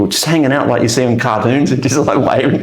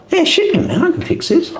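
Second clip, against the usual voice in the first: mock bravado. Retold bluff about the Glock.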